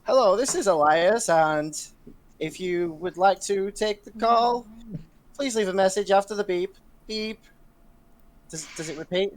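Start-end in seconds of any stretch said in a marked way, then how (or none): 0.0-7.4 loud, chirpy voicemail greeting; answering machine voice. Acted. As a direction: read it like a recorded phone message. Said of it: "and I say".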